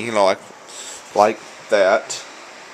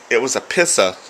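Boston "pissa", r dropped; Boston accent. Shown as a demonstration. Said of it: "here comes another Boston word".

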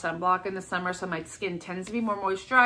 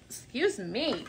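hiccups and burps between words; hiccuping; 4 dB quieter, slower than usual. Real, not acted. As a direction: talk through the hiccups. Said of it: "I'm still hiccuping and burping".

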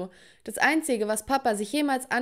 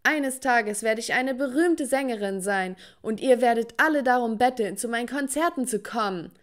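yelling back; 3 semitones higher than usual. Retold or imitated. Daughter screams back at her family, defiant. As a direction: fling it back at them. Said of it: "schrie zurück".

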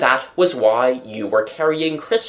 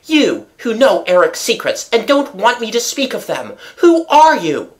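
feverish cry; 9 semitones higher than usual. A narrator's reading. Raoul challenges the stranger who knows Eric's secrets, feverishly. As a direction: fire it out feverishly, voice climbing. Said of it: "he cried in a feverish voice".

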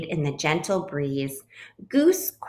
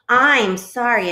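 loud, high, stretched apology; apologetic; 5 semitones higher, 6 dB louder than usual. A narrator's reading. Bluebird apologizes to Duck and Goose, apologetic. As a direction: gush the apology, pitch lifted. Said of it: "apologized the bluebird".

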